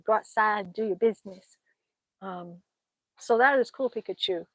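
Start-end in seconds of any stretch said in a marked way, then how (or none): 0.1-1.6 Southern accent. Shown as a demonstration. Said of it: "your southern accent is on point".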